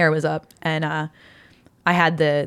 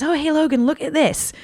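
imitated dad; 10 semitones higher than usual. Father calls his young son over.

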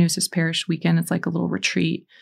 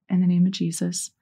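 prayer response. Shown as a demonstration. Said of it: "repeat after me".

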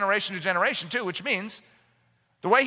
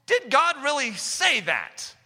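slow, sly questioning; lightly voiced cunning serpent; drawn-out sly doubt; serpent's question; 4 semitones higher, slower than usual. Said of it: "The serpent".

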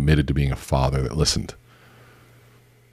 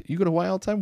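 amazed echo; 3 dB quieter, much faster than usual. Retold or imitated. Listener repeats the line, amazed.

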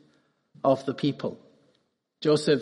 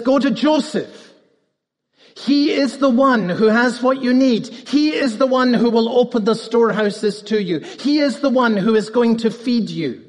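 Pharaoh's command; 4 semitones higher than usual. Retold or imitated. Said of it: "He says".

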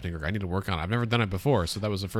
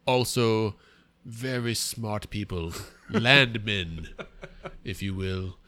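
pompous funny voice; slower than usual. Acted. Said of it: "What is this voice you're doing?".

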